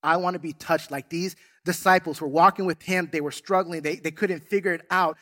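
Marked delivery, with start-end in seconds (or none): 0.0-0.9 earnest prayer. Retold or imitated. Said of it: "that prayer is".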